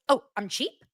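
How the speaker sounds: high, snooty rich-lady parody voice; offended millionaire, hammed-up and high-pitched; mock Bronwyn. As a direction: ham up a spoiled rich snob, way up high. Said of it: "And now Bronwyn's like".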